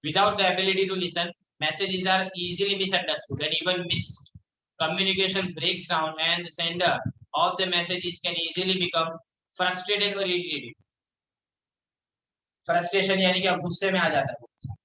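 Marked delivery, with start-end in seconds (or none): 0.0-10.7 reads the English line out word by word, very slow; slow classroom read-aloud; slow textbook reading. Acted. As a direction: dictate it slowly to the class.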